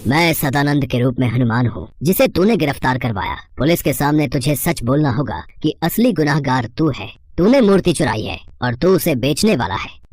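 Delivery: lightly voiced commanding god; stern Hanuman. Hanuman confronting the idol thief, lightly stern and measured. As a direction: confront the culprit with measured authority.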